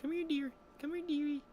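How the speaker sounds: high-pitched animal coaxing; put-on high, cooing call; Danny coaxing the deer. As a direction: imitate sweetly luring a deer over.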